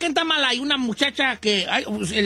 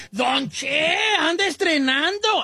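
mock shout; 5 semitones higher, slower than usual. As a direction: yell it across the street, mocking. Neighbors calling out new truck. (gritando en tono de burla)

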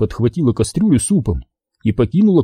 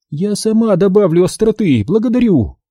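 firmly; 9 semitones higher than usual. A narrator's reading. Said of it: "твёрдо ответила Астри".

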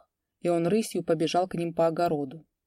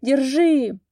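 shout; 7 semitones higher, 7 dB louder than usual. A narrator's reading. Chase, men shouting.

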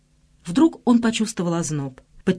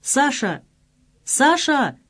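calling after him; 7 semitones higher, much slower than usual. A narrator's reading. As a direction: call after him as he runs. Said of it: "кричала ему вслед Лена".

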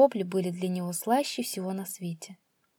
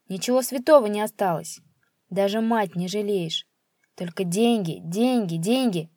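reproachful father building in volume; outraged father, деньги hammered; indignant scolding; 4 dB louder than usual. Acted. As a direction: scold him, louder and louder. Father scolding his son.

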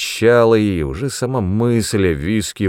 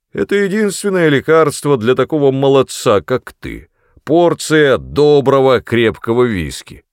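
high, false caring tone; mock concern; 6 semitones higher, 5 dB louder than usual. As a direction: sneer like a fake doctor. Father's mock care. (притворная забота)

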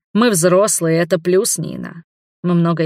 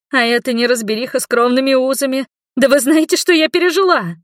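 upset daughter; 7 semitones higher than usual. A narrator's reading. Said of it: "Никак не успокаивалась гостья". (расстроенная дочь, выше и громче)

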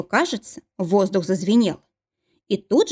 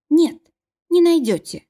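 high-pitched, louder protest; desperate denial; 9 semitones higher, 4 dB louder than usual. A narrator's reading. Cornered wife tells searchers they won't find it, desperate denial. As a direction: insist desperately, voice pitched right up.

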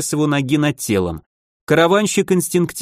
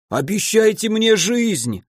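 slow, higher, pleading wail; wailing plea; 7 semitones higher, slower than usual. A narrator's reading. The spitting merchant begs the archmage for life, wailing. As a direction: beg for your life, drawn out. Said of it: "заголосил мужчина".

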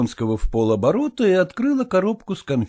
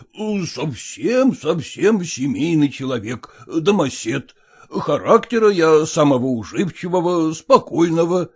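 put-on stiff elderly suitor; 3 semitones higher than usual. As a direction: recite the proposal like a form. Erekhonsky voiced.

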